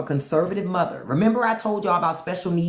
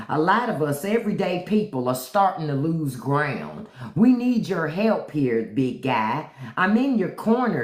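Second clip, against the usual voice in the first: reading a letter in a Southern drawl; Southern drawl, pleading politely with the president; 2 semitones lower than usual. Acted. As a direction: put on a folksy Southern drawl. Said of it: "I'm gonna read it in my Southern drawl".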